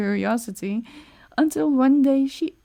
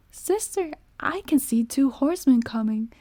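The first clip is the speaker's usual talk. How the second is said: calling out; 3 semitones higher than usual. Acted. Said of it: "called out Anna".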